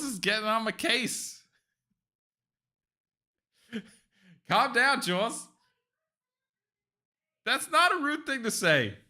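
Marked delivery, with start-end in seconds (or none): 4.5-8.9 defensive protest. Real, not acted. Defending his words to Jules, affronted and higher. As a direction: pitch up high, defending himself.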